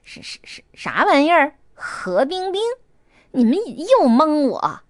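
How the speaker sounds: 先结巴，再拔高嗓门惊问; 不敢相信地提高音量质问; 愣住后惊叫. A narrator's reading. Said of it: "Tommy愣了几秒". (愣了一下，惊叫)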